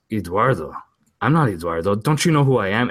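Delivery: mildly indignant, insisting on another identity; adamant denial. Retold or imitated. Cousin insists to relatives he's not Eduardo, mildly adamant. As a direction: imitate someone affronted at being misnamed. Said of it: "he's very adamant that he's not Eduardo".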